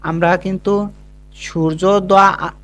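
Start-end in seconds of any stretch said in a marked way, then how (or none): 1.4-2.6 সূর্যোদয় drawn out slowly, showing the break; slow demo. Shown as a demonstration. Teacher demonstrating the split in সূর্যোদয়, slow and careful. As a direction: stretch সূর্যোদয় to show where it splits. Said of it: "একবার উচ্চারণ করে".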